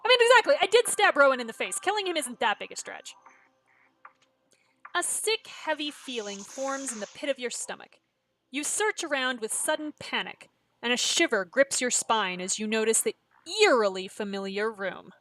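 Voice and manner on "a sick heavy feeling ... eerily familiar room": measured suspense narration; story narration. A narrator's reading. Game player reads the waking scene, suspenseful narration. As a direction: read the creepy scene aloud.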